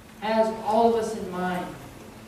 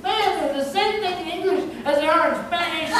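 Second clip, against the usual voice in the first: indignant exclaim; 8 semitones higher than usual. Retold or imitated. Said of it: "I said".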